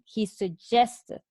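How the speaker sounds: slow, "suggested" stressed in contrast. Shown as a demonstration. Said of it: "He didn't tell people".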